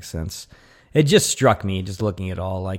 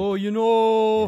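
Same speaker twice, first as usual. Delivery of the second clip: high, slow goofy drawl; Canadian Beavis voice; 12 semitones higher, slower than usual. Retold or imitated. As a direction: play it like a dim cartoon teen.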